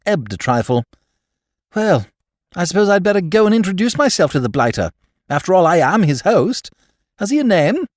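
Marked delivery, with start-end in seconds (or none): 1.7-7.9 put-on raised, eager young gent; bright, rushed toff patter, higher; Bertie's excited voice.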